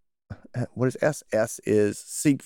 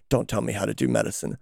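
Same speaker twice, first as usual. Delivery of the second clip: softer, cold, clipped retort; defensive doctor; 4 dB quieter than usual. Retold or imitated. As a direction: push back, offended and proud. Doctor snaps at the manager.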